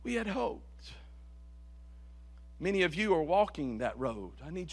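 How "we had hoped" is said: much softer, falling away to almost nothing; hushed echo. Acted. Preacher echoing the line softly to the congregation. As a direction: let it die on the breath. Echo after a long pause.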